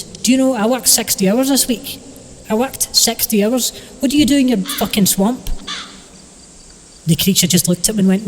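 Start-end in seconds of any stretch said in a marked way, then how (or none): 0.0-5.5 high-pitched, indignant complaint; exasperated rant. Acted. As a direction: argue back, fed up and incredulous. The speaker rants at creature about work.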